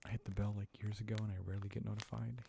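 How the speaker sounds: gentle ASMR whisper. Acted. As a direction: whisper it close, like a secret. ASMR chat to viewers.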